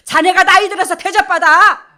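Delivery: very loud, high preacher's shout; emphatic exhortation. Real, not acted. Preacher urging husbands to honour wives while young, shouted warning. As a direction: blast the payoff line out.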